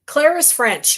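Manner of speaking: mock Irish accent. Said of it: "and I'm speaking Irish".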